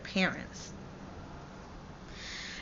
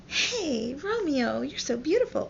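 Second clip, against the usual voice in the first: higher, lilting lovestruck greeting; acted dreamy adoration; 6 semitones higher than usual. Juliet waking in Romeo's arms, playfully dreamy. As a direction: coo lightly, as if waking to a sweetheart.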